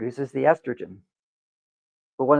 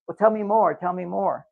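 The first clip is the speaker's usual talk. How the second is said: higher, pushing wife voice; wife pressing her husband for details, higher and insistent; mock insistent wife; 4 semitones higher than usual. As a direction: keep prodding him to talk.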